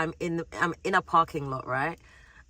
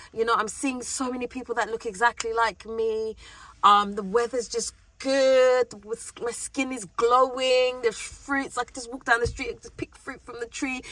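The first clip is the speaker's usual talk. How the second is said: acted newcomer's delight, pitched up; excited; 4 semitones higher than usual. New arrival connecting with Africa, mildly acted excitement. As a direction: gush a little, imitating someone newly arrived. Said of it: "it's just exciting, it's overwhelming".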